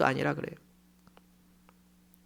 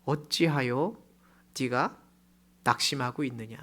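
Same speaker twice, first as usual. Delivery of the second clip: lower, softer calm question; gentle divine reply; 5 semitones lower, 4 dB quieter than usual. Acted. God answering the despairing believer, soft and calm. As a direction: answer tenderly, like a patient father. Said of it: "하나님의 대답".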